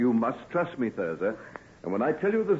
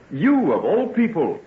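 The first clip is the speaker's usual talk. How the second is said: pleasantly startled exclamation; delighted surprise; 8 semitones higher than usual. Acted. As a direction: greet her in happy shock. Unexpected meeting with old love.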